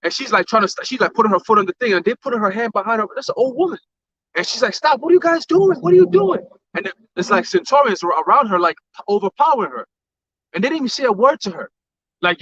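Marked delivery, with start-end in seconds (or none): 4.7-6.4 high, imitated cry of protest; alarmed protest. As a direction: mimic someone being grabbed, pitch jumping up. Retells old woman protesting while grabbed.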